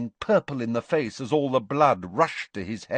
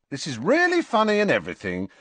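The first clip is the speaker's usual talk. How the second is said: quick, high, irritated brush-off; impatient; 6 semitones higher, 3 dB louder, faster than usual. A narrator's reading. Harry cuts off Ron's supposed joke, impatient. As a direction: rattle it off impatiently. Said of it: "said Harry impatiently".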